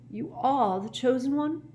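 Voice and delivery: high, rising question; astonished. A narrator's reading. Professor questions the chosen one, astonished. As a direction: let disbelief lift to the end.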